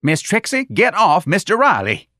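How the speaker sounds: high, loud, tense hiss; urgent hissed order. A narrator's reading. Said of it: "the office manager hissed".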